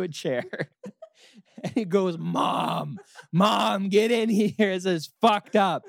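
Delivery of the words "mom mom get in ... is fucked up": loud, high yell for Mom; panicked calling out. Retold or imitated. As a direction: act a freaked-out kid shouting for help. Boy calls mom for help.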